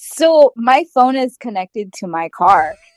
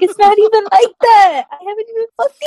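retold protest; 10 semitones higher, faster than usual. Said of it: "And I'm just like".

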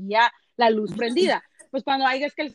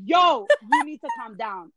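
slow, deliberate telling-off; slow firm calm down; 3 dB louder, slower than usual. Retold or imitated. Reporter telling the diva off slowly, firm and deliberate. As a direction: spell it out slowly to settle her down. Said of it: "I said".

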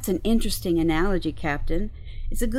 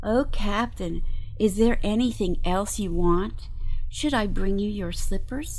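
mock servility. Crew member teasing the captain over slippers, mock servile. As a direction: play the fawning servant to needle them.

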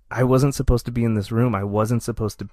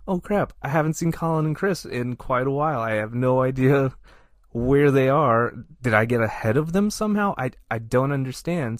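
imitating a panicked inner voice, pitched higher; mock panic; 3 semitones higher than usual. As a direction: replay the moment of "oh no" in a raised voice. Retelling panic at security checkpoint.

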